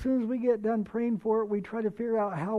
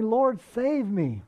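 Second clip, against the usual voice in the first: crying out; 5 dB louder, slower than usual. Acted. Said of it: "he cried out".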